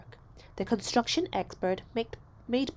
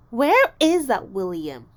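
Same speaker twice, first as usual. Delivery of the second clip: calling; 2 semitones higher, 11 dB louder, slower than usual. A narrator's reading. Teacher asking loudly.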